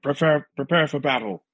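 high, far-off mock booming call; booming Gandalf impression. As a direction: imitate a booming wizard's command. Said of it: "with his big booming megaphone voice".

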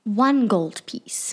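slow, breathless whisper of disbelief; a stunned, hushed echo; shocked whisper. Acted. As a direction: whisper the price back, aghast. Shocked at the price.

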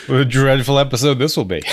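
hammed-up theatrical lament; mock dramatic doom. Mock gloom joke.

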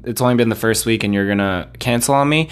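asking plainly with a rising end; a simple question, nothing pointed behind it; retelling the exact words to his friend, a plain rising question; matter-of-fact question. Retold or imitated. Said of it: "That's literally kind of how I said it".

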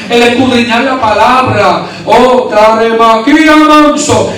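preacher's prayer building from measured to impassioned; fervent prayer. Real, not acted. Preacher asking God to minister to the church, fervent prayer. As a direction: pray aloud, stretching phrases as fervour rises.

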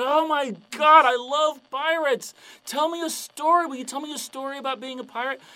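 high, gushing fanboy; loud, starstruck excitement; freaking out. Acted. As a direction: squeal it like a thrilled pirate fan. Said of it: "the guy freaks out".

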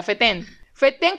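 "fetén" with the weight on its last syllable; "fetén" as fe-TEN, ending on n; stress on second E. Shown as a demonstration. Speaker correcting pronunciation, "fetén" stressed on second E. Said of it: "con acento en la segunda E".

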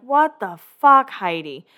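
a retold, fed-up outburst at his girlfriend; angry outburst. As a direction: snap it out in disbelief, then trail off on Heidi. Spencer blowing up at Heidi.

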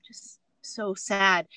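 slow, near-whispered fake grief; mock sorrow. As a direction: play sad in a slow whisper. Retold fake grief over invented story.

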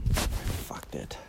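real whispered curse, breathy and low. Real, not acted. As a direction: curse under your breath after dropping the phone. Dropped the phone mid-recording.

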